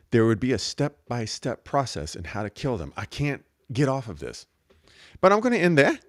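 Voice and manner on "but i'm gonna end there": put-on New Zealand accent. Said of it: "with the New Zealand accent again".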